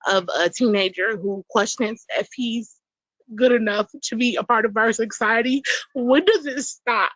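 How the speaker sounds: pleading mother holding back tears; getting emotional. Real, not acted. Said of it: "I'm sorry, I'm getting emotional".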